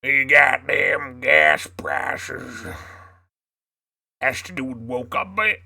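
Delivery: southern voice. Pretend. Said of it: "my southern voice".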